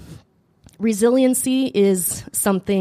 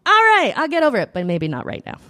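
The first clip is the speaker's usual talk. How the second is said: cheeky comeback; 4 semitones higher than usual. Retold or imitated. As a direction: agree then undercut it teasingly. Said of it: "throw it back at her and be like".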